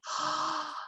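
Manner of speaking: a quiet gasp of amazement; soft wonder gasp. Acted. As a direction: catch your breath in wonder. Teller gasps at the clearing.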